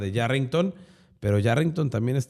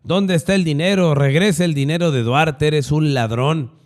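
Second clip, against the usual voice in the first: louder, higher mock shout; imitating angry heckler; 4 semitones higher, 4 dB louder than usual. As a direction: voice a retold accusation, building in pitch and volume. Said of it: "le gritó de todo".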